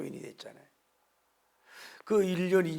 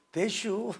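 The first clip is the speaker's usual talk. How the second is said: short, higher Chungcheong reply; Chungcheong accent; 7 semitones higher, much slower than usual. Retold or imitated. Pastor teasing terse Chungcheong speech, high Chungcheong accent. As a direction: toss it off lazily, Chungcheong style. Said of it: "충청도".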